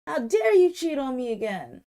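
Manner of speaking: acted-out indignation, held short of a shout; indignant accusation. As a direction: imitate an indignant, cheated-on woman. Retold angry accusation of cheating.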